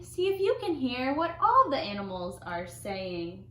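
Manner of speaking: sing-song picture-book narration; reading to children. A narrator's reading. Storyteller reading an animal picture book, lively narration. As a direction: read to little ones with swooping emphasis.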